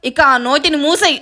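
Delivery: flustered hushing, mildly exasperated; awkward, irritated giving-in; embarrassed. Acted. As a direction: shush them because everyone is watching. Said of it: "ఇబ్బందిగా అంటాడు".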